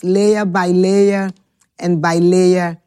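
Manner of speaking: each "layer" low and spaced out; layer by layer, slow and deliberate. Shown as a demonstration. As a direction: lay down "layer by layer" one slow beat at a time. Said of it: "building blocks demo".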